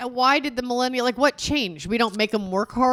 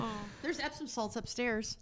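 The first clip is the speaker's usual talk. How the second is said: very soft, slow offer; mock sweet voice; 18 dB quieter than usual. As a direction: murmur it sweetly.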